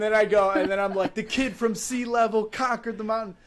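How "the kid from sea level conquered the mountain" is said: retold victory boast, pitched higher; trash talk. Runner crowing on top of the mountain, trash-talking. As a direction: brag like you just won. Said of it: "just talking trash".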